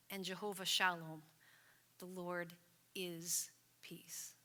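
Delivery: hushed, unvoiced and reverent; a whispered blessing on peace; soft whisper. Real, not acted. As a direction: breathe the word peace out in a whisper. Closing a prayer softly.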